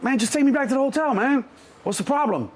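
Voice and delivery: high-pitched, impatient appeal; exasperated pleading. Retold or imitated. Passenger begging ride back to hotel, exasperated. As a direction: push the driver, exasperated. Argues with shuttle driver.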